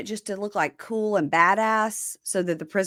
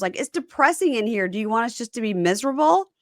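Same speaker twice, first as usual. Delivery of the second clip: higher-pitched imitated plea; mock pleading; 5 semitones higher than usual. Inmates asking officers to let them keep wall decorations, mock pleading. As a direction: plead like an aggrieved inmate, lightly mocked.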